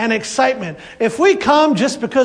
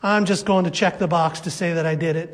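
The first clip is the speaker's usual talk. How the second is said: box-checking attitude; 5 semitones lower, 5 dB quieter than usual. Retold or imitated. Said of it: "type of faith".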